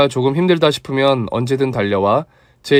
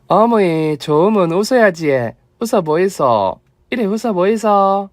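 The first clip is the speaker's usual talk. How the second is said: a lightly voiced Gyeongsang mother, slow and coaxing; Gyeongsang dialect; 5 semitones higher than usual. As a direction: coax her to smile in Gyeongsang dialect. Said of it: "엄마야, 내 사투리".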